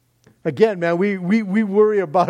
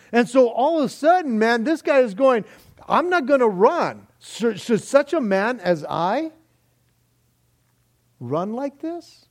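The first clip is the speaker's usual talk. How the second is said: fervent preaching; 7 semitones higher, 4 dB louder than usual. Acted. Preaching climax retelling refusal.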